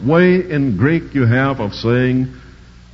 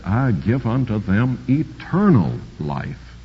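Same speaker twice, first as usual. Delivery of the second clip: solemn true reading; 2 semitones lower, 5 dB quieter than usual. Shown as a demonstration. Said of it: "Listen, Jesus said".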